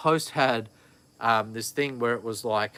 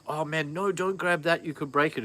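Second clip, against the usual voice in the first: higher-pitched mock alarm at the toddler; retold alarm; 4 semitones higher than usual. Dad reenacting warning his toddler off the remote, higher mock alarm. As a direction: warn the baby off, lightly voiced. Son grabbing expensive things.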